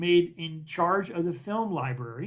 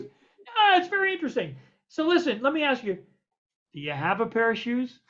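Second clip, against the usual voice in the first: much higher, bright imitation of the boss; eager producer; 5 semitones higher than usual. Storyteller imitating studio boss, much higher voice. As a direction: lift the pitch way up to play the producer.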